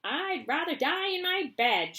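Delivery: put-on high loud stubborn old woman; flat refusal; shouted. Grandma Josephine refuses the lift, shouting. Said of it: "shouted Grandma Josephine".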